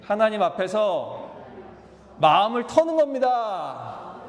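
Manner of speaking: 예배는, 하나님 앞에서, 마음을 터는 겁니다, spaced out slowly and rising; slow lead-in phrase. Shown as a demonstration. Preacher leading the congregation in a slow call to repeat. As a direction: pace each phrase for the congregation to echo. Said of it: "따라해 보실까요?".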